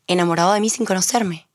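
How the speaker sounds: lightly put-on Peruvian accent; a hint of Peruvian lilt. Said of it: "Dime algo con acento peruano". (acento peruano ligero)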